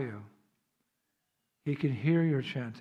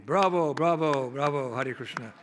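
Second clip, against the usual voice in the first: louder opening cheer, easing off; applauding crowd; 4 dB louder than usual. Retold or imitated. Crowd to the man who saved ducks, mock cheering. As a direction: imitate onlookers cheering. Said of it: "the people applauded me".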